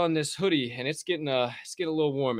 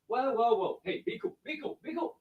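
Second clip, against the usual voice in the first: soothing pet; 9 semitones higher, 7 dB quieter than usual. Real, not acted. Calming the pet.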